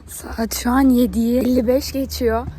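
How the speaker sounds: husky, worn-out morning voice; hoarse voice. Real, not acted. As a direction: talk through a lost, raspy voice. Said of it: "Sesim kısıldı". (kısık ses)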